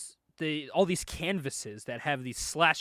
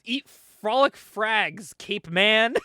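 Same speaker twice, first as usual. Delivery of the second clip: drawn-out mock villain battle cry; hammed-up attack line; villain's taunt; 4 semitones higher, 4 dB louder, much slower than usual. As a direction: taunt them slowly, higher-pitched, like a comic-book villain. Villain's attack line while throwing bombs.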